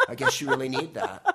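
dismissive snob through laughter; snooty local, laughing. Retold or imitated. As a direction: sneer it while cracking up. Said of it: "People in San Francisco will go".

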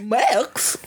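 cartoon dad calling his son; imitated cartoon call; Goofy. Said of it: "That's how he says Max".

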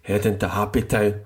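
low answering half of a playful chant; dad's routine answer. Retold or imitated. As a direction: drop down for the stock reply. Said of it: "he's just like".

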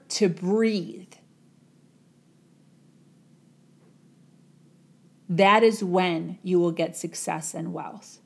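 slow, measured words of a sage; calm wise guru. Acted. Guru calmly explaining the secret to the young man. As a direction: let the lesson land gently.

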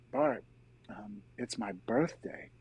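soft, slow confiding murmur; retold whisper. Brother whispers into his ear in a tearful hug, retold hushed. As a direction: imitate a hushed word in someone's ear. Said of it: "Bob whispers into my ear".

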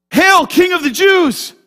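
loud, slow, sarcastic hail; mocking shout. Soldiers mocking Jesus in the fortress, loud sarcastic hail.

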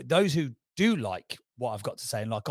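ordinary delivery

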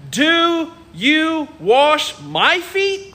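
astonished Peter. Retold or imitated. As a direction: drag out the disbelief. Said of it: "who said to him".

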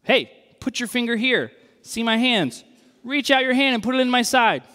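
a friend daring you to look; casual Jesus. Retold or imitated. Jesus to doubting Thomas, brash and chummy. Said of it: "Then he said to Thomas".

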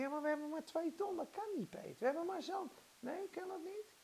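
mock hesitant worrier; timid doubting objection. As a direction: object meekly, quickly and quietly. Acts out doubting believer.

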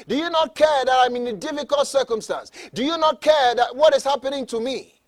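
mildly acted cry for help, without screaming; mock plea to Jesus; mock crying complaint. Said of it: "screaming and crying".

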